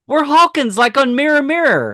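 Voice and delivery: teacher explaining. Retold or imitated. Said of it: "And she goes".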